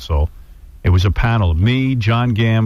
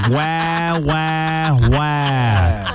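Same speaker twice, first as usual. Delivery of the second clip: mock crying; 5 semitones higher, much slower than usual. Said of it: "Let him cry".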